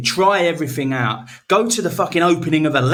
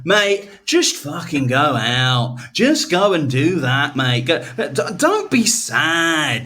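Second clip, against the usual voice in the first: mock pep talk; much slower than usual. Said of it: "sit here and go".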